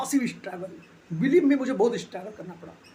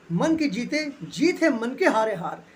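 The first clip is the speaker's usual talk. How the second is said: proverb recited slowly; slower than usual. Real, not acted. Quoting a proverb.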